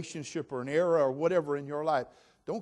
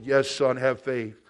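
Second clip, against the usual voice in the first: voice of God; 3 semitones lower, 7 dB louder, slower than usual. Acted. God answers the man.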